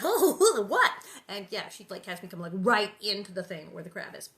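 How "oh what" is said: surprise. Retold or imitated. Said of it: "And I'm like".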